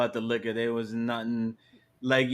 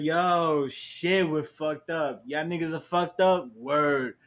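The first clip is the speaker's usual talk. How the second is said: acted drunk partygoers; 5 semitones higher, slower than usual.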